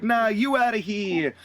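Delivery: hammed-up Brooklyn referee; Brooklyn accent. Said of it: "Are you trying to do a Brooklyn accent now?".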